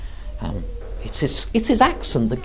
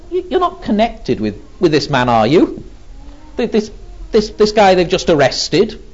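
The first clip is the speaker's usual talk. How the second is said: a touch of incredulous challenge, higher in places; lightly voiced gatekeeper girl; 4 semitones higher than usual. Girl at the gate questioning Peter about the arrested man, lightly mocking. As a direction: lightly play a girl probing a stranger. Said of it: "She looks at him and says".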